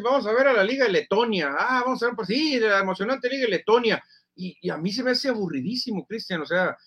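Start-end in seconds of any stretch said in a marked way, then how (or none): 0.0-4.0 higher-pitched mock enthusiasm; mock TV promo. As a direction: sarcastically hype an obscure league. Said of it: "Pero de repente dice".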